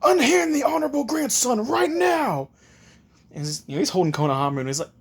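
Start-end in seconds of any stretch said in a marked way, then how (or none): 0.0-2.5 high, indignant command; outraged order. Acted. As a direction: demand it as an affronted retainer. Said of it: "he's just glaring at Naruto".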